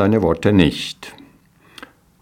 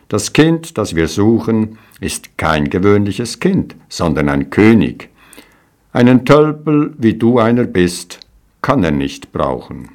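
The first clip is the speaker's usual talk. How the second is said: scornful shepherds; 3 semitones higher than usual. Acted.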